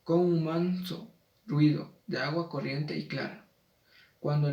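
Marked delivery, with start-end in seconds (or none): 1.5-2.0 "ruido" drawn out as ru-í-do in two syllables; diphthong split. Shown as a demonstration. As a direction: stretch "ruido", separating the u from the i. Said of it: "se disuelve un diptongo y se larga la sílaba".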